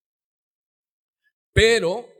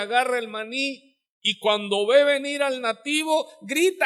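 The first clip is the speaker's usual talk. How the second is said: normal talking voice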